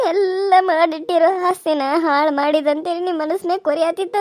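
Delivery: crying. Acted. Widow mourning her dead husband.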